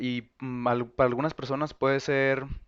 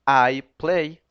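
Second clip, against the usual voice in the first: I play said out louder; the example I play, louder; clear model phrase; 7 dB louder than usual. Shown as a demonstration. Teacher modelling the example sentence for the class. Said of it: "yo lo tomo y digo".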